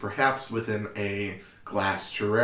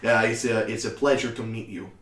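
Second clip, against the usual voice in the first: put-on Tobias's accent, lower-pitched and polite; courteous, accented greeting; character's actual accent; 3 semitones lower than usual. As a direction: settle into the character's proper accent. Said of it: "this is the actual accent".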